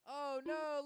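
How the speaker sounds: sudden loud dismay; surprised. Real, not acted. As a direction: blurt it out in alarm. A car has trouble.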